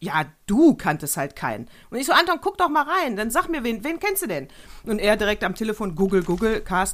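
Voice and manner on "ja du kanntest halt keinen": put-on sarcastic, cynical, low voice. Speaker retells what Anton said to him, retelling a cynical remark. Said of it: "dann sagte der Anton so zynisch".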